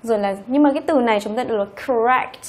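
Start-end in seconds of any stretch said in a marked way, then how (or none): 1.6-2.4 "correct" stressed on its second syllable, rect. Shown as a demonstration. Teacher models a word many misread, "correct" stressed on rect. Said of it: "trọng âm của nó lại rơi vào âm thứ hai".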